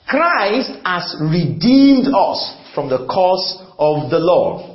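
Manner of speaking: slow, measured verse read; scripture reading. Acted. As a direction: read it out deliberately. Reads verse slowly.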